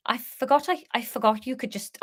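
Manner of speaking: hesitant, faltering stab at Welsh; failed Welsh accent. Acted. Harry talking to Leah, unsure Welsh accent. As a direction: start in Welsh and lose it. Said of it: "now I can't remember how to do Welsh".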